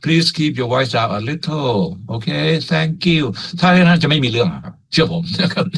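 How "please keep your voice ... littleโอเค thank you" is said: slow, polite friendly request. Acted. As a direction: ask gently, as a friend would. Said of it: "คุยกันแบบมิตร". (ขอร้องแบบมิตร สุภาพ)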